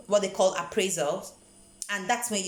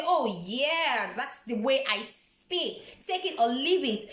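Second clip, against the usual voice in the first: mock take-it-or-leave-it defiance; offended retort; 4 semitones higher, slower than usual. Speaker imagining an offended reply to criticism of her English, mock defiance. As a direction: imitate a mildly huffy, drawn-out comeback. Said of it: "I pick it as an offense and I say".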